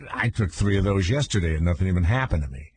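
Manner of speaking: lightly voiced buddy, fast; offhand buddy voice. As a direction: toss it off like a friend. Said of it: "you know, like that".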